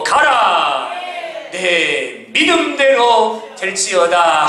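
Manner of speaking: slow, solemn sung-out command; commanding Jesus. Acted. Jesus commanding the centurion, solemn slow decree. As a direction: pronounce it like a blessing, drawn out. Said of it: "이렇게 말씀하세요".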